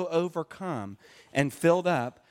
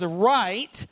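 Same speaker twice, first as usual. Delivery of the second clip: fed-up innkeeper; much slower than usual. Acted. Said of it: "And he says".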